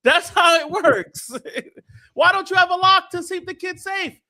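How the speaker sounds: high, loud, incredulous rant; real worked-up outburst; exasperated yelling. Real, not acted. Heated argument about blame.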